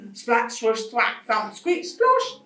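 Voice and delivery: high, loud sound-effect words; punchy comic noises. Acted. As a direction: pop out each noise word.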